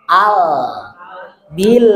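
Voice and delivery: "Al" and "bil" with a still, unbounced l; no bounce. Shown as a demonstration. Teacher showing sukun without qalqalah. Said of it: "jangan sampai ada qalqalah".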